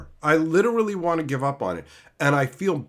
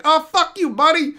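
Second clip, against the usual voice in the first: high, loud hammed-up rage; mock furious Sarkhan; 10 semitones higher, 5 dB louder than usual. Sarkhan cursing at Ugin, high loud mock fury. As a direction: yell it like an insulted dragon man. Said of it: "Sarkhan's like".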